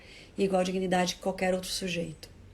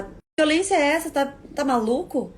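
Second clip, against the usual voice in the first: indignant shock; 4 semitones higher than usual. Retold or imitated. Adult answering the threat: high indignant disbelief. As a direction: react as if slapped, appalled. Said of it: "O que você vai falar?".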